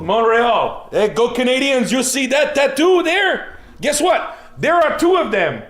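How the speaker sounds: put-on high-pitched Montreal accent. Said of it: "That's a really good Montreal accent".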